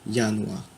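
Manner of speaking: Januar as "yanouar", low; J pronounced as Y. Shown as a demonstration. Teacher repeating the example Januar, J said as y. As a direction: say Januar with an opening y glide. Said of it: "ça se prononce Y".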